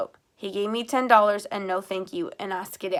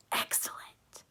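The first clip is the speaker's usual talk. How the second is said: voiceless, much softer whisper; breathed; 10 dB quieter, slower than usual. A narrator's reading. Girl realizes the sheriff's plan, breathless whisper. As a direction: breathe it in awe. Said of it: "I breathed".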